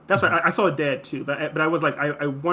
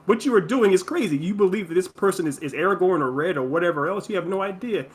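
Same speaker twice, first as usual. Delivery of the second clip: higher-pitched mom reasoning it out; acted mother, insistently talking sense into someone; logical mom; 3 semitones higher than usual. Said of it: "verbalizing her logic".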